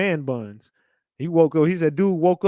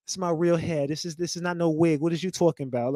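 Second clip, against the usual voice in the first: mock sassy Bronx; 5 dB quieter than usual. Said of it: "sound like a damn Puerto Rican from the Bronx".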